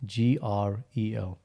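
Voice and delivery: slow spelled-out letters; sounding out words. Shown as a demonstration. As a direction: spell each letter slowly. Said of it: "Say, say this medical drug".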